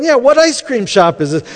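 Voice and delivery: high, loud excited question; eager group reply. Retold or imitated. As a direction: imitate a keen crowd all jumping in. Retold class eagerly agreeing.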